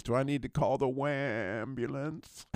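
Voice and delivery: put-on slow, drawn-out teasing kid voice; a sarcastic schoolyard jab, taken slowly; mocking kid quote. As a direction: taunt him like a smug little boy. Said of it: "he says".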